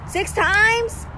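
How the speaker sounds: high disbelieving question; incredulous. Real, not acted. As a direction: say it a third time, still stunned.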